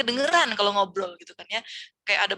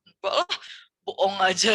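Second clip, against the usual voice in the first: put-on dismissive kid; 5 dB louder than usual. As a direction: brush it off like a skeptical kid. Children dismissing superstitions.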